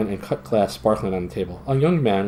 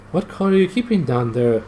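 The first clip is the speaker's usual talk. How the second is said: calling down; 7 semitones higher, 3 dB louder than usual. Acted. Voice from above calls down.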